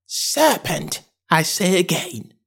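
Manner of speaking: high pigeon voice, somewhat held back; subdued high bird voice; subdued screech. A narrator's reading. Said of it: "in a more subdued tone".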